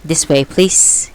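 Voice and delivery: slow, even monotone. Acted. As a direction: say it lifelessly slow. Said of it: "addressing them to the same monotone".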